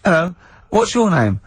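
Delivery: high, sing-song greeting; a hammy sitcom neighbour saying hello; bright mock-friendly greeting to the neighbour; high put-on character voice.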